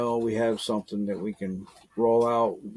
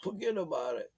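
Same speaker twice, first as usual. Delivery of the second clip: soft gangster echo; 5 semitones higher, 10 dB quieter than usual. Retold or imitated. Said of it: "exactly how they talk".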